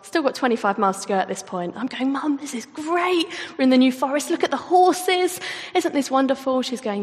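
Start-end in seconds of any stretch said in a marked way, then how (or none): 2.1-6.6 higher, eager, gushing about the view; bubbly delight at the start of the race; excited chatter. Retold or imitated. Cheerful daughter gushing to her mum early in the marathon, excited.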